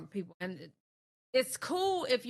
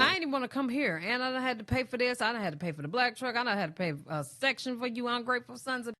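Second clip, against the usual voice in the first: higher, building angry rant, loud blowup at the end; playful indignant rant ending in a shout; mock rant; 6 semitones higher, 7 dB louder, faster than usual. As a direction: rant like the fed-up birthday girl. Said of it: "And I'm like".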